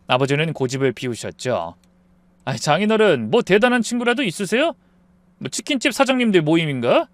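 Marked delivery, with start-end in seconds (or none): 2.4-7.1 a hint of a drunk, sneering son-in-law; mocking. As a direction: toss it off with a light sneer. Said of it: "비웃듯이 말했어요". (취한 사위가 장인을 살짝 비웃듯이)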